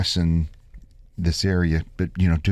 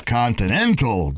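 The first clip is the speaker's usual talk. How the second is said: put-on Italian Jewish accent; 3 semitones higher than usual. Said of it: "He said it with an Italian Jewish accent".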